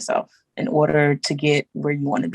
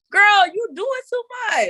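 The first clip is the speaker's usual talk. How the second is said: laughing self scold. Retold or imitated.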